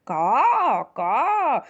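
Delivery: crying caw; crow caw. Pretend. Storyteller caws like a baby crow. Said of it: "Their voices also sounded different".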